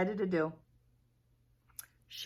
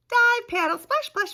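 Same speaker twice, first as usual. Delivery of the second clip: higher, louder, bouncy sound words; lively storybook sound effects; excited; 8 dB louder than usual. A narrator's reading. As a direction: splash them out with glee. Bunnies crossing water.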